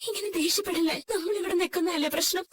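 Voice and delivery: pleading through tears; crying. Acted. Wife begging her husband not to get angry, crying.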